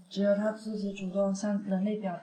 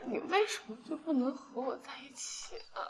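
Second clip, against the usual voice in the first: softer, stress on 为; pleading; 8 dB quieter than usual. Acted. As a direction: ask why with hurt, stressing 为. Drunk girl pleads softly.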